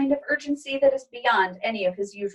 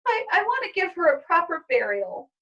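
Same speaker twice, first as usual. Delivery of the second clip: through tears; 8 semitones higher than usual. Acted. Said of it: "through her tears".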